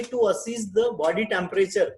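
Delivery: very slow, each word separated; slow dictation. Shown as a demonstration. Teacher dictating sponge bath to the class, very slow. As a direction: give them time to write every word. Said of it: "teacher dictating care plan".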